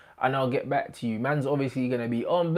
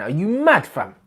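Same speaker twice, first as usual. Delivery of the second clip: mock disbelief; 4 semitones higher, 5 dB louder than usual. Mock outrage at own team.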